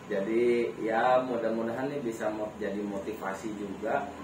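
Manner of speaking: talking around a cigarette; words muffled by a cigarette; cigarette in mouth. Real, not acted. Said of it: "Sorry sambil ngerokok".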